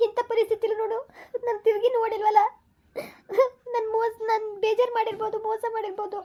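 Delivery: wife weeping that her husband stays away; crying. Acted. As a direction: sob the regret out. Sister cries about husband's anger.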